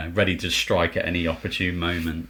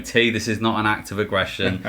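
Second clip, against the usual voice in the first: pleading a little higher, in imitation; raised-pitch mock plea; mock grovelling; 4 semitones higher, 3 dB louder than usual. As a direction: act out grovelling to a rival player. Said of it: "me grovelling, going".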